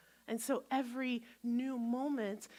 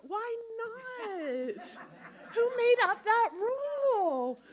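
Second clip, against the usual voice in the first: high amused laughing challenge; 10 semitones higher, 6 dB louder, much slower than usual. Real, not acted. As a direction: laugh off the silly rule. Mocking the rule, laughing.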